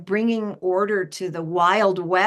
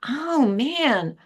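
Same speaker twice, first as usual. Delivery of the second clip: mock flattery; 5 semitones higher than usual.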